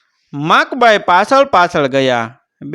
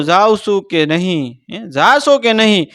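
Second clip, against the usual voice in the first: angry demand; 5 semitones higher than usual. Acted. Bhagat shouts at Jadro to leave, angry. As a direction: drive him off with fury. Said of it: "ફરી ત્રાડ પાડી".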